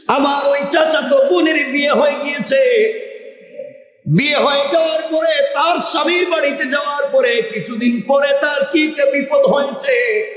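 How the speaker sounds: high chanted confession; melodic preaching. Acted. Trapped man confessing to God about his cousin, chanted preaching. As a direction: intone each phrase high, drawing out its end.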